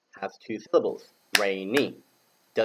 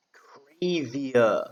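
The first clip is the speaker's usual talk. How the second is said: whispered; 3 semitones higher than usual. Shown as a demonstration. Teacher whispers crazier before asking pupils to say it. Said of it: "Can you say crazier?".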